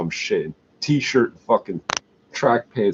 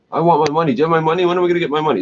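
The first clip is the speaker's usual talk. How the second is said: whiny demand; 6 semitones higher, much faster than usual. Retold or imitated. Meth users arguing over debts.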